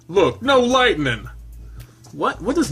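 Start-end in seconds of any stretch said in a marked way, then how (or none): 0.1-1.3 higher, louder, slow gloating; higher taunt. Acted. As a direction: crow "no lightning" high and loud. Taunting, said twice.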